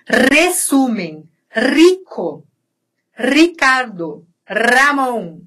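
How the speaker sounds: Resumem, rico, Ricardo, Ramon with a long trilled R; rolled initial R. Shown as a demonstration. Teacher models hard words for Brazilians, trilled R in "Ramon". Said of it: "essa vibração é".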